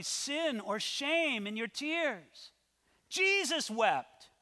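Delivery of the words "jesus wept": slow, high and forceful proclamation; emphatic. Acted. Preacher proving to the congregation there's no shame in tears, emphatic. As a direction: drive the verse home, stretching both words. Repeats verse as forceful proof.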